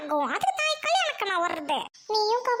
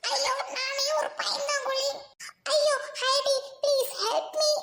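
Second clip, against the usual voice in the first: frightened, slightly raised plea; hammed-up scared pleading; acted fright; 4 semitones higher, slower than usual. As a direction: call for help like a scared coward. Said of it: "பயமா இருக்கு".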